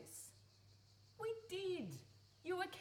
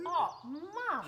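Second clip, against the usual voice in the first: louder, higher pained protest; exasperated cry; 5 semitones higher, 9 dB louder than usual. Acted. Daughter reacts to mother's despair.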